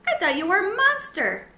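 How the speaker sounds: a startled guinea pig. A narrator's reading.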